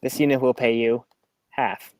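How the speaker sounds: flat third-person robot voice. Acted. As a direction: speak like a stealthy robot. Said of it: "a little bit of more of a stealthy robotic voice".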